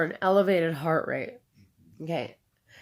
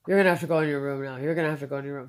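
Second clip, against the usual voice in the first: imitated staff order; 4 semitones lower, 4 dB louder, much faster than usual. Retells staff ordering her away.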